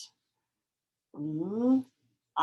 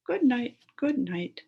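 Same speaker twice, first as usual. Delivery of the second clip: put-on reading aloud to kids; 6 semitones higher, 5 dB louder than usual. Shown as a demonstration. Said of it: "Goes like this".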